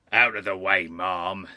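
firm order from a bruiser; crying out. A narrator's reading. Prize fighter clearing an old lady aside, crying out. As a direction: order her aside with some force. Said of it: "he cried".

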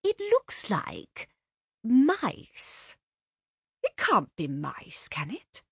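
slow, peering puzzlement fading to a whisper; drawn-out puzzling, the last words whispered; puzzled mother. A narrator's reading.

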